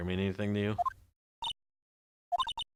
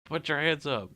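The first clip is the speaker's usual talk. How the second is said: cop shout; 9 semitones higher, 5 dB louder, slower than usual. Acted. Cop bursting in, game scene.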